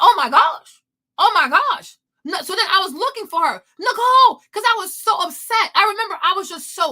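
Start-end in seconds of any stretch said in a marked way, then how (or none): 0.0-2.0 louder, stunned gasping cry; realising the friend was right, shocked; shocked exclamation. Retold or imitated. Shock after reading the case. 3.8-4.4 higher, louder call of a name. Retold or imitated. Calling out for her friend.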